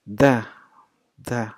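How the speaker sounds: "the" as a short isolated duh; D sound. Shown as a demonstration. Teacher isolating the sound of the ending, "the" as duh. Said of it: "sounds like".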